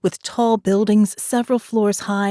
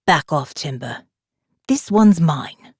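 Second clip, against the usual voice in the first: possessive warning; 3 semitones lower than usual. A narrator's reading. Morgan warns Jake off.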